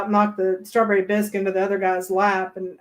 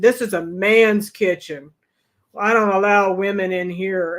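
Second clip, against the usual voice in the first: mock macho; 3 dB louder than usual. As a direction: lay down his rule. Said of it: "snatched the glass out of my hand".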